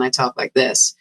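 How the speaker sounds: put-on masculine, older-sounding American accent. Shown as a demonstration. British actor demonstrating their unaltered American voice, masculine American accent. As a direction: turn a British voice straightforwardly American. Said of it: "change my British accent to an American accent".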